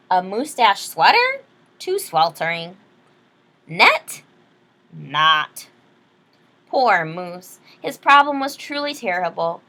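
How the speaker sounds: lively read-aloud storyteller; story narration. Acted. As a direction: read it like a bedtime picture book. Reads picture book aloud.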